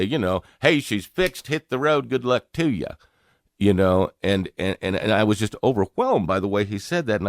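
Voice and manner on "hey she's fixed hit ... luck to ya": higher, brisk and offhand; a light imitation of a folksy good ol' boy; breezy local mechanic. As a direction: toss it off like a casual roadside mechanic. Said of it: "it'd be odd to say that anyone say".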